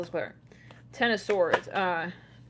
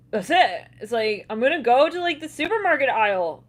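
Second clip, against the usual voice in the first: mock rage; 4 semitones higher, 7 dB louder than usual. Voicing angry shopper.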